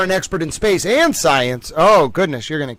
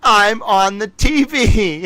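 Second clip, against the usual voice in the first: cartoon dog; 7 semitones higher, much slower than usual. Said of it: "little doggo gets to be like".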